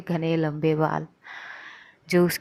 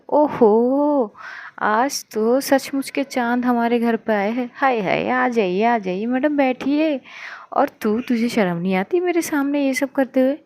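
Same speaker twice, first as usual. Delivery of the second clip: playful teasing; 3 semitones higher, 4 dB louder than usual. Acted. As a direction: tease the couple with a grin in the voice. Sister teasingly welcomes the girlfriend.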